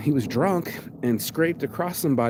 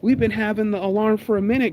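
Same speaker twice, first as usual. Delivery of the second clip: sassy; 8 semitones higher, 4 dB louder than usual. Retold or imitated. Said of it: "homegirl said".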